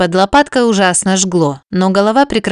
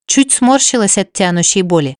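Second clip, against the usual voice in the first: plain reading voice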